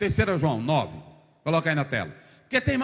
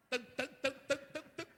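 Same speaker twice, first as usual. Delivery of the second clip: hammer blows; 5 semitones higher, 14 dB quieter than usual. Retold or imitated. Imitates hammering the stake.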